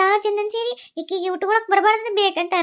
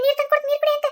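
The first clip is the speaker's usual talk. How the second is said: ordinary delivery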